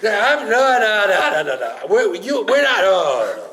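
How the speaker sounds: comic high-pitched, sputtering protest; flustered refusal. Retold or imitated. Angel of death balking at taking the wife upstairs, comically flustered. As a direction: sputter a loud, hammed-up panic.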